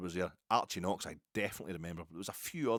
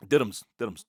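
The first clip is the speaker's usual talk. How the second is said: loud, hammed-up call of the sponsor's name; sponsor shout-out; 3 semitones higher, 14 dB louder than usual. Plugging the kebab sponsor to podcast listeners, loud mock call. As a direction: belt the name out like a market trader.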